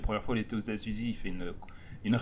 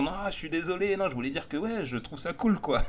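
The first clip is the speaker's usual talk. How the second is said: mock apology; 4 semitones higher, 3 dB quieter than usual. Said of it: "confondu en excusant".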